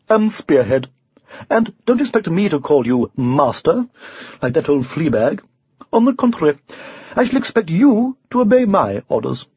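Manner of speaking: lightly voiced haughty unicorn; imperious unicorn. Unicorn tells the knight to fetch grass, haughtily bossy. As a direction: order the servant about, sharp rise at the end.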